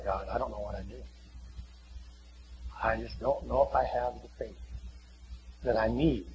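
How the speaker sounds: low, hushed admission to God; humbled, quiet voice of a parent admitting weakness; subdued confession. Acted. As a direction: confess it softly and low, with pauses.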